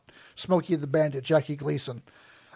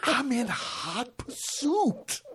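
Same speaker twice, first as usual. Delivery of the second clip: higher, very slow movie-lawman drawl; mock sheriff catchphrase; 5 semitones higher, much slower than usual. Host quoting a chase comedy to a co-host, mock sheriff catchphrase. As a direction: drag out each word for the laugh.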